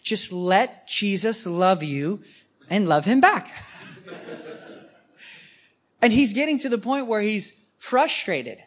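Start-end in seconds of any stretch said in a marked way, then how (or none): 0.0-3.5 patient advice. Retold or imitated. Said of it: "Oh, here's our advice".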